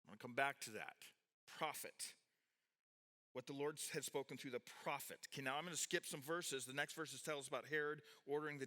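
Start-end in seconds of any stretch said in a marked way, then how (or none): 1.4-2.1 prophet set apart, quiet and falling; quiet emphasis on Prophet; stressed prophet. Shown as a demonstration. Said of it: "I emphasized the word prophet". 3.3-5.2 prophet leaned on at the end; understated emphasis on prophet; stress on prophet. Shown as a demonstration. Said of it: "I emphasized the word prophet".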